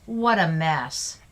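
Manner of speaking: slow, weighty "What a mess"; really emphasize "What a mess", drawn out slowly; emphatic exclamation. Shown as a demonstration. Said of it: "You're really emphasizing the fact".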